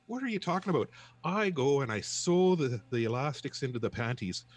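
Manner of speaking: high, loud indignant shout; incensed protest. Retold or imitated. Furious panty stitcher protesting his pay to the clerk, loud indignant yell. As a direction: protest the unfairness at full volume. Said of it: "John is incensed".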